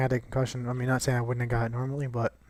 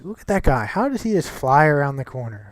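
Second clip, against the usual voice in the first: annoyed outburst; 3 semitones higher, 6 dB louder than usual. Real, not acted. Filming in the car, he yells at a reckless driver, loud and annoyed. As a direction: snap at the guy flying round the corner.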